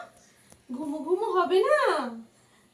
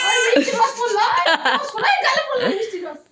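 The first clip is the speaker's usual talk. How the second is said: playful cooing; 5 semitones higher, 7 dB louder than usual. Real, not acted. Mother cooing over baby's cheek.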